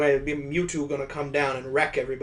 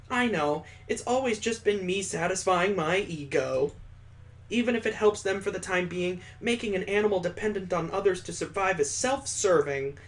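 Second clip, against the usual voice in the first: a lightly voiced, higher, earnest young woman; Mallory's confession; 4 semitones higher than usual. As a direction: let her admit her selfishness.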